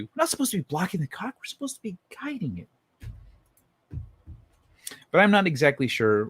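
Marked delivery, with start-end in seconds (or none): 0.0-2.7 quiet quote. Retold or imitated. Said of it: "that's what that was a reference to".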